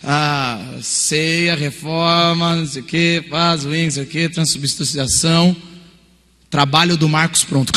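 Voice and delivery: slow, lilting search chant; drawn-out typing. Retold or imitated. Student typing the search terms one by one, drawn out. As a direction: drag out each search term. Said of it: "Ele pôs".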